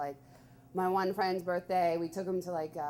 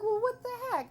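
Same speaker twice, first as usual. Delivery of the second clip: mock indignant; 14 semitones higher than usual. Friend leaves at his birthday.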